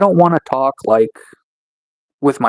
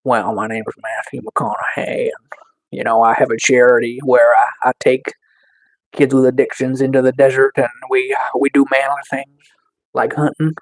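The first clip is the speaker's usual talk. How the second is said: Matthew McConaughey; 2 semitones lower than usual. Acted. Streamer imitates the actor describing his charity, hushed impression. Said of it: "if I talk like Matthew McConaughey".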